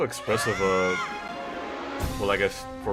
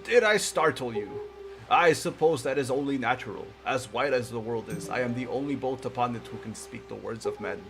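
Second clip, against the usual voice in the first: put-on wise old man voice. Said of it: "a more wise old man voice".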